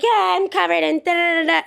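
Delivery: high, breezy brush-off; airy mimic of a careless customer; mock dismissive guest. Retelling guest's dismissive reply.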